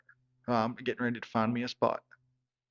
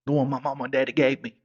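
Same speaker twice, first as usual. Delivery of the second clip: quick, louder, defensive comeback; a little attitude; 3 semitones higher, 6 dB louder, faster than usual. Retold or imitated. Boyfriend defends his name to her disapproving parents, quick and louder with attitude. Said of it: "I was getting a little bit of an attitude".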